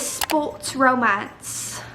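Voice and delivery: slow British-accented announcement; sports romance in an unplanned British accent. Real, not acted. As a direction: slip into a British accent, drawn out. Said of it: "saying that in a British accent".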